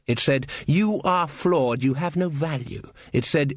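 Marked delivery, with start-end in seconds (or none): 0.7-2.9 contemptuous elf look. Acted. The Queen's look passing judgement.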